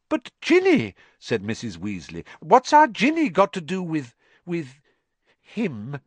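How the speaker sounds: high, frantic mother; anxious mother. Acted. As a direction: plead in alarm.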